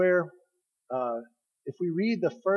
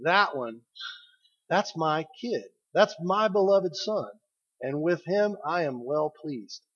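tender pride; slower than usual. Acted. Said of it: "Where he says".

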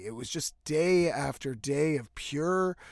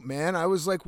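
usual speaking voice

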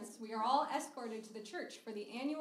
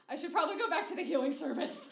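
high, loud, rushed excuse; panicked blurting; 5 semitones higher, 6 dB louder, faster than usual. Acted. Panicked excuse after first kiss.

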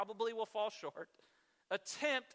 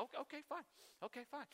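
huffy sulking; 7 semitones higher, 11 dB quieter, much faster than usual. Retold or imitated. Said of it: "I'm huffing and puffing".

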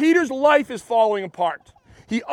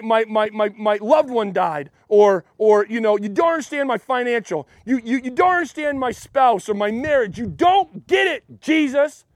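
acted protest. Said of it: "He could fight and say".

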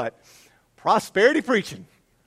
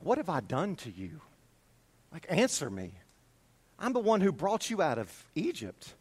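softer, pleading for an answer; quiet divine questioning; 5 dB quieter than usual. Acted. God questioning Israel on trial, quiet and restrained.

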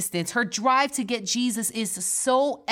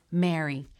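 tender calling; 6 semitones lower than usual. Acted. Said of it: "The tone and tenderness of his voice".

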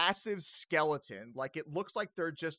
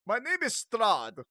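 loud, higher, theatrical vampire voice; Strahd; 6 semitones higher, 9 dB louder than usual. Acted. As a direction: announce the name with grand vampire menace. Vampire proudly introduces himself.

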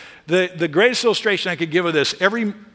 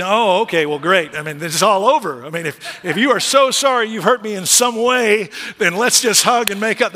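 sarcastic spouse; 3 semitones higher than usual. Retold or imitated. Spouse voiced sarcastically, mock reply.

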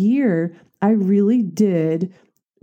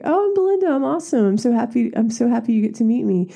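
gushing bubbly greeting; 5 semitones higher, much faster than usual. Retold or imitated. Retold greeting to Steve Wozniak.

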